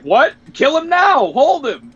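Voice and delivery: high, loud shout; urgent shout. Retold or imitated. Piccolo shouting to kill Frieza now, high loud yell. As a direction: bark out the order.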